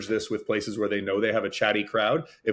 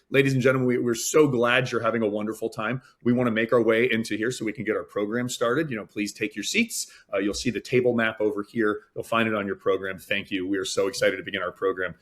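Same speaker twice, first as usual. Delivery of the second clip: gentle; 2 semitones lower than usual. Retold or imitated. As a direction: ease the guests to their seats kindly. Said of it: "who just gently say".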